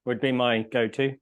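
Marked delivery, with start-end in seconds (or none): 0.1-0.2 talking with a mouth full; words muffled by food. Real, not acted. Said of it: "Sorry, I've got my mouth full".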